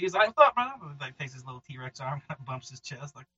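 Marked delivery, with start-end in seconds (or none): 0.4-0.7 higher, chummy drifter voice of a three-legged monster; friendly forest creature. Acted. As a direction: play a laid-back, boastful woods creature. Creature greets Troy.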